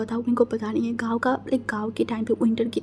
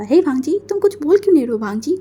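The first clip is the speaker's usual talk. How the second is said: louder, fast calling of Wangji; 3 semitones higher, 5 dB louder, faster than usual. Acted. Uncle calling out to distracted Wangji, louder and fast. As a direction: hail him across the garden.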